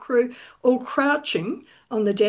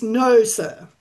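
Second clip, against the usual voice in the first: firm, a touch louder No, sir; emphatic; 5 dB louder than usual. Acted. Captain Anthony refuses Stone boarding, emphatic. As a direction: plant both words firmly. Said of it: "emphatically answers".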